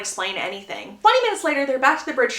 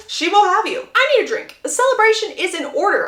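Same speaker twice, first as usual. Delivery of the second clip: excited relief; 8 semitones higher, 5 dB louder than usual. Acted. Anthony relieved, wants to celebrate.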